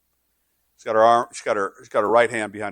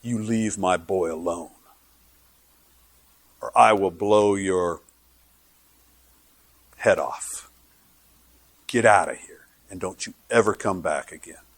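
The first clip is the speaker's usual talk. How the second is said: mother's threat; 4 semitones lower than usual. Retold or imitated.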